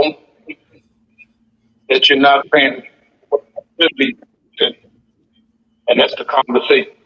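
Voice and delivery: phone line fading in and out; breaking up over a bad line; crackly cordless phone. Real, not acted. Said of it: "you're fading in and out".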